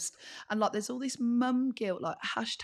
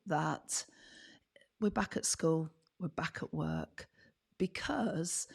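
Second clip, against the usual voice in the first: moaning voice; slower than usual. Acted. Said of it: "I can manipulate this into a moan".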